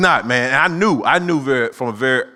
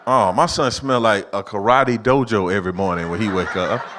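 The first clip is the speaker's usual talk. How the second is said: ordinary delivery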